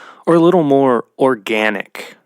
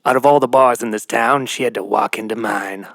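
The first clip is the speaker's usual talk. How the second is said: noir detective; faster than usual. Shown as a demonstration. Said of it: "You know, like".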